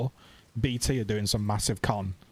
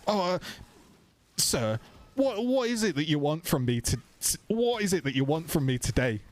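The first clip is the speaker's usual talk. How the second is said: flustered, stammering helpdesk voice, pitched higher; flustered call agent; 6 semitones higher than usual. Retold or imitated. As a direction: play the rattled agent caught out. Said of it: "he was getting really fucking flustered".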